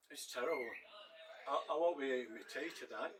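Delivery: talking through a mouthful; words round a bite of food; mouth full. Real, not acted. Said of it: "Excuse me talking with my mouth full".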